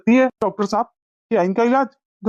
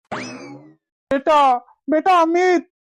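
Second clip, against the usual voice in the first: drawn-out cry, then higher call; distressed calling out; 3 semitones higher, much slower than usual. Acted. Stricken father calls out to his son as he collapses, distressed.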